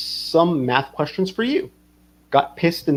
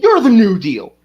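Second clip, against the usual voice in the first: mock yell; 7 semitones higher, 7 dB louder than usual. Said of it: "He's like".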